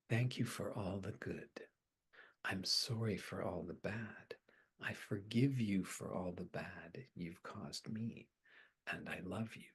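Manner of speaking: soft, low, inward recitation; quiet, near-whispered retold prayer of forgiveness; hushed forgiveness phrases. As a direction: say it gently under the breath, phrase by phrase.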